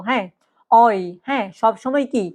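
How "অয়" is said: অয় with rounded lips. Shown as a demonstration. Teacher demonstrates the German diphthong, rounded-lip অয়. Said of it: "ঠোঁট গোল করে বলবো".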